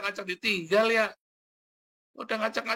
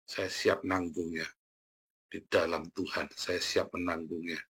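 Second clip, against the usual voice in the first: calm and steady; 7 semitones lower, 4 dB quieter than usual. Retold or imitated. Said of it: "tenang saja".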